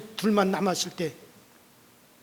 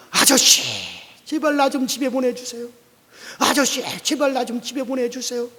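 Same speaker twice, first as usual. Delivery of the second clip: higher begging voice; pleading; 3 semitones higher than usual. Acted. Lame man begging the pastor to send him home, higher. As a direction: beg to be let go home. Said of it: "애원을 했습니다".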